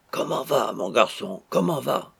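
captain's hail, lifted at each question; captain's big voice. A narrator's reading. Captain speaking into the bridegroom's ear, big voice. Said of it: "transmettre de sa grosse voix dans l'oreille".

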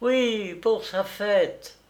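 high, drawn-out reply; wife's voice. A narrator's reading. Wife confirming the surprise to the engraver, high voice. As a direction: answer in a high voice, stretching the end.

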